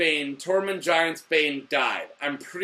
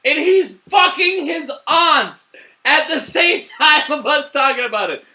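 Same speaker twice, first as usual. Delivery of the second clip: shouting, higher and louder; excited shout; 10 semitones higher, 7 dB louder than usual. Real, not acted. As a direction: yell it in gleeful disbelief, laughing partway. Fan ranting about the twist.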